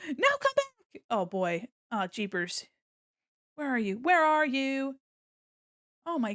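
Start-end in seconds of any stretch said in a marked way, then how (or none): none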